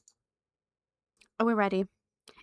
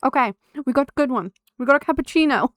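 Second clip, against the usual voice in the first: excited; 2 semitones higher, 7 dB louder, faster than usual. Real, not acted. Relieved at a good bean.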